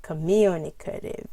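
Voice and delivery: communicative up on MU, down, slightly up; coMUnicative, rising then falling by syllable; primary and secondary stress. Shown as a demonstration. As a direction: trace the stress steps of communicative. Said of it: "Goes up and down".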